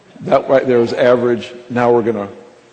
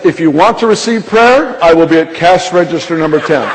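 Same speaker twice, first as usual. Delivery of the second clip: intercom announcer. Retold or imitated. Young man invites shoppers to cash register ten, announcing. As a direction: imitate a store announcement inviting people over. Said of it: "he takes the mic back and he says".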